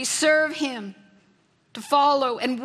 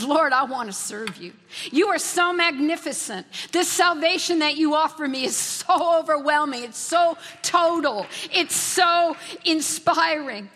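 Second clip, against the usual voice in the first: higher, rising praise to the Lord; grateful praise; 3 semitones higher than usual. Acted. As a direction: lift it up in awe. Voices a grateful prayer.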